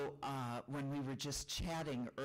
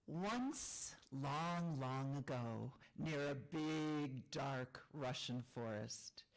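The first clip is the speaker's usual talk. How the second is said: storytelling voice; slower than usual. A narrator's reading. Starts telling folk tale.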